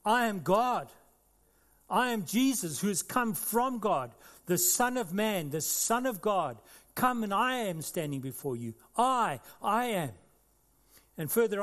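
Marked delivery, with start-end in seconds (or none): 0.0-10.1 declaring. Acted. Preacher voicing Jesus before the crowd, proclaiming. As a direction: announce it with conviction. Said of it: "He's declaring".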